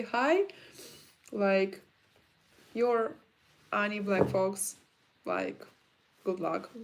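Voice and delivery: a cheerful, polite fan; friendly fan greeting. Retold or imitated. A nice fan greeting the actress in a gym, bright and friendly. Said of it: "No, just say".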